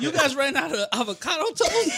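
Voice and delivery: entitled bro voice. Retold or imitated. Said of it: "sounded like a Chad".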